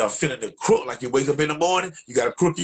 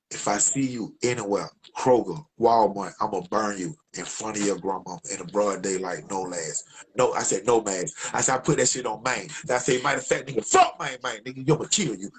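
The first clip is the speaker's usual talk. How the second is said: cold threat; 3 semitones lower than usual. Retold or imitated. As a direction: promise revenge under your breath.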